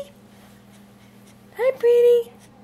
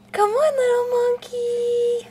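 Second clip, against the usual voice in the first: whisper; 4 semitones higher than usual. Real, not acted. Coaxing baby to smile.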